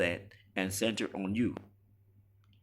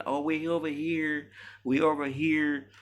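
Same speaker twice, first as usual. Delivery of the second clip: much higher, slow sing-song mockery; mock woman calling out; 9 semitones higher, 3 dB louder than usual. Mocking the few women who claim to be different, high sing-song mock. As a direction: wave your hand and sing it like a show-off.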